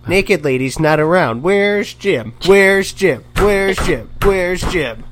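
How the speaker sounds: high, slow whiny pleading voice. Retold or imitated. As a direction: whine like a needy friend begging. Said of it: "his whiny voice".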